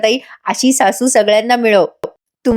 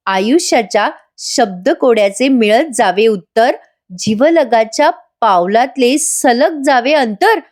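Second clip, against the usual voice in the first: poem recital; 2 semitones higher, slower than usual. Acted. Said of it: "Nandini आता ते message वाचते".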